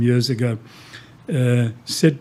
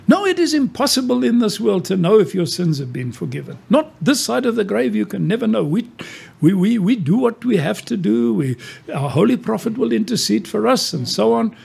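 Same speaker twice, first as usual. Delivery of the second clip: higher, insistent retold reply of a Muslim woman; quoting the Muslim woman; 7 semitones higher than usual. Preacher quoting a Muslim woman's firm answer, higher and insistent. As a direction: raise the voice to voice her certainty. Voicing her second answer.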